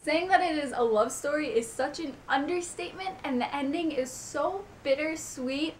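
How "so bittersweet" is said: bittersweet drawn out slowly, weight on bitter; stress on bitter. Real, not acted. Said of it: "Emphasis on the bitter".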